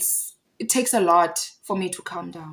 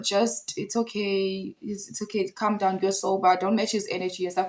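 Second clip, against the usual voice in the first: mild hushed reassurance, quoted; retold calming down; 7 dB quieter than usual. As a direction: softly imitate a friend placating. Friend's retold attempt to calm her.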